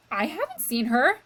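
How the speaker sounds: loud, harsh denial; shouting. Acted. Luis shouting that he hasn't seen Meg, loud. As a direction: bark it out defiantly. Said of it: "Luis was shouting".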